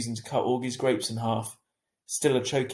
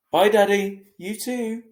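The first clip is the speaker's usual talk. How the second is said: put-on child's voice; 9 semitones higher, 9 dB louder, slower than usual. A narrator's reading. Augie answering Dad.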